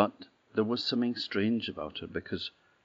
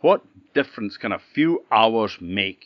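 shouting king; 3 semitones higher, 8 dB louder than usual. Acted. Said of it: "he shouted".

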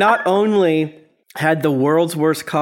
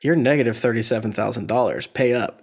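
Alex Trebek; 6 semitones lower, 4 dB quieter than usual. Retold or imitated. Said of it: "Alex Trebek is like".

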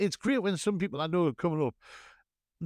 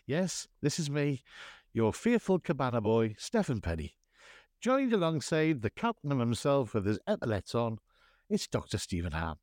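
lowered scene-setting host voice; 3 semitones lower than usual. Acted. Host welcomes listeners to Agony Island in low smooth voice. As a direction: paint the tranquil island scene.

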